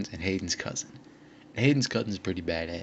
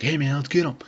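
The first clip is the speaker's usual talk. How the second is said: imitated rallying shout, higher and louder; higher, louder mock battle call; 6 semitones higher, 5 dB louder than usual. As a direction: call the group to attack, quoting a friend. Friend rallies group to attack.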